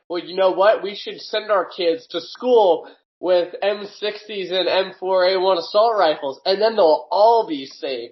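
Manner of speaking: slow, drawn-out mock argument; mock pro-gun stance. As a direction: argue the opposite side, stretching it out. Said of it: "I'll be like".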